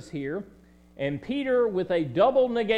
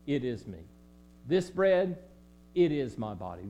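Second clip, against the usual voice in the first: calm and assured; 5 semitones lower than usual. Acted. Jesus telling the disciples at supper, calm and assured. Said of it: "Jesus assuredly and calmly says".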